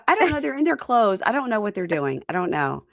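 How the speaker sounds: high, helpless rambling; mock baffled; bewildered. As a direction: trail off confused. Own bewildered reply retold.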